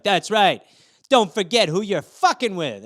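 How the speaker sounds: acted cat warning, a touch forceful; cocky cat. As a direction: voice a small cat putting on swagger. Cat's cocky reply voiced.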